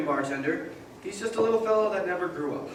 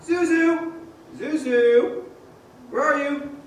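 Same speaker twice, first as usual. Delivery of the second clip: loud, high desperate shouts through the house; frantic father shouting for his wife and kids; frantic calling; 8 semitones higher, 5 dB louder, slower than usual. Acted. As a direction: call out for his family in panic. George searching empty house for family.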